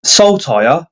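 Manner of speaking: "Saltire" said clearly as SAWL-tire, rising at the end; own pronunciation. Shown as a demonstration. Host showing viewers how the often mispronounced name goes, "Saltire" pronounced SAWL-tie-uh. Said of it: "I say it like".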